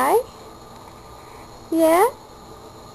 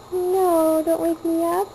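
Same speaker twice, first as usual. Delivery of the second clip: mild high-pitched baby protest, lightly voiced; voicing the baby; 5 semitones higher than usual. Parent speaking for the sleepy baby, a light high baby voice. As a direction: pretend to be the sleepy baby grumbling.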